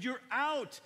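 drawn-out, slow, loud insistence; firm loud insisting. Retold or imitated. Father insisting to his son that he's out, loud and slow. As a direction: stretch it out, firmly.

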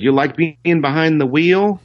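high mock teasing question; imitating a singer. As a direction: set up the punchline. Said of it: "he said".

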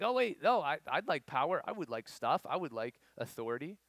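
sudden high, loud grab for power; greedy eager ask. Acted. Disciple eagerly demanding power in front of everyone, loud and high. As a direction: blurt it out like a disciple hungry for power.

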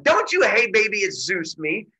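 loud, high opening snap, then easing; mock angry scolding. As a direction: imitate an indignant lover telling him off. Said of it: "she gets angry and angry".

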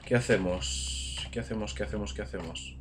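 soft repeated question, trailing down; musing to himself. Real, not acted. Gamer asking himself what to do next, soft musing. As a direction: ponder it softly under your breath.

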